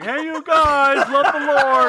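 slow, dopey Sloth impression. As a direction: draw it out like a dim giant. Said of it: "Sloth from the Goonies".

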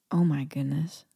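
breathy whispered dismay; whispered oh my goodness. Real, not acted. Vlogger whispering dismay at her driving years. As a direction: whisper it in mock alarm. Dreading the driver's test question.

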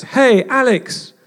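high, loud call across the field, slow; retold shout. Teammate calling across the field after the game, loud shout. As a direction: call out to someone yards away. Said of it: "he suddenly shouts".

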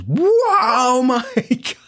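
high awed wow with a laugh; stunned by the catch; mock-awed teammates; amazed.

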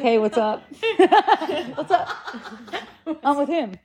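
breezy hey through laughter; laughing casual greeting. Retold or imitated. Mother greeting staring strangers during the meltdown, laughing and casual. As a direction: play it cool while laughing. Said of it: "kinda like reassuring 'em it's all good".

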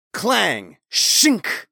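high, vocalized metal clang and shink; ringing clang into a loud hissed shink; imitated steel clash. A narrator's reading. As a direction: punch out sword-strike sound effects. Narrator voices blade striking chain.

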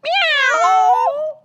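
high drawn-out meow; cat answering the dog. Acted. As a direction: mew like a kitty. Cat in story.

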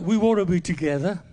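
mock jingle voice from the advert; sing-song it like the TV ad; lightly voiced advert slogan; advert line. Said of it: "that famous advert".

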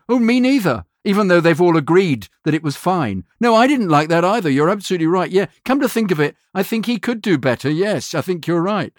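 high, eager agreeing with whoever sounds sure; fawning client. Retold or imitated. Ad clients caving to a confident critic in a high voice. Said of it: "they'll go".

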